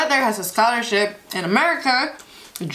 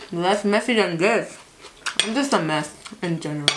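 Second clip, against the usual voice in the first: speaking between bites of salad; talking while chewing; 3 semitones lower, 4 dB quieter than usual. Real, not acted. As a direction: mouth partly full of food. Seen 4: Bite taken at -2; lips pursed and cheeks full while speaking.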